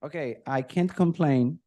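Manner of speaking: ordinary talk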